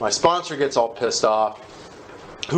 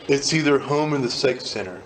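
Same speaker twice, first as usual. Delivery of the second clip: laughing. Real, not acted. Laughing while quoting Ben.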